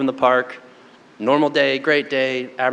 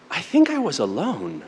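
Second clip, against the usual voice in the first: softly imitating a pensive small child; quiet, self-reflective; 6 dB quieter than usual. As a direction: retell it quietly, as if thinking it over. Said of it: "she was really quiet and self-reflective".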